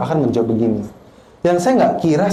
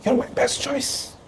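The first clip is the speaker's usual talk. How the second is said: much softer, slow, tender; soft voice of God; 10 semitones higher, 8 dB quieter, much slower than usual. Retold or imitated. God telling the pastor he is chosen, soft and slow. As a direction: let it fall gently and slowly. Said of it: "Tuhan bilang ke saya".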